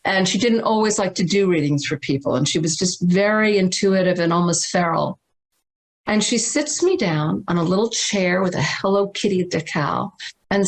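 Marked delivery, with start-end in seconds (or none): none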